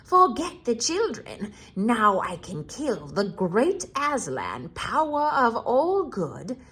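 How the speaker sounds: gloating White Witch. Acted. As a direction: savour the victory as a cruel witch.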